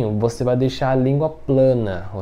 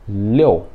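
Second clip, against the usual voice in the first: "liu" as a firm falling "liou"; strong fourth tone; 3 semitones lower, 3 dB louder than usual. Shown as a demonstration. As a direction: drop "liu" decisively, with an o inside. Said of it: "como tá no quarto tom, ele é forte".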